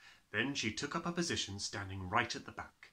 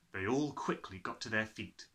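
plain reading voice

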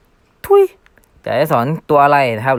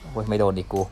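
softer grumble under the breath; quiet annoyed mutter; 6 dB quieter than usual. Real, not acted. Gamer annoyed at missing his skill again, muttered softly. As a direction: grumble to yourself after missing.

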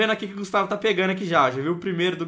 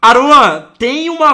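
loud high call of a friend's name; 8 semitones higher, 15 dB louder, much slower than usual. Real, not acted. Gamer shouting for his friend's attention mid-game.

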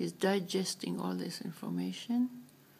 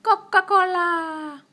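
parrot voice; 8 semitones higher, 10 dB louder, slower than usual. Pretend. Talking to a parrot.

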